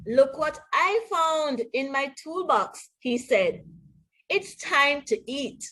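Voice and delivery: lively storybook read-aloud with voiced characters; animated picture-book narration; reading to children. A narrator's reading. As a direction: read it like bedtime story time for kids. Reads storybook to students.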